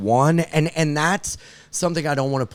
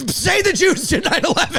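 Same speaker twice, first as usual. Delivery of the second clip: high, put-on evil whisper-voice; evil guy voice. Girlfriend in his ear egging him on, high villain voice. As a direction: goad like a cartoon villain. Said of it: "like, an evil guy".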